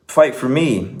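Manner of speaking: imitated pleading, pitched well up; retold urgent plea. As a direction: press the point as the pleading kid. Retold kid pleading with sinking horse.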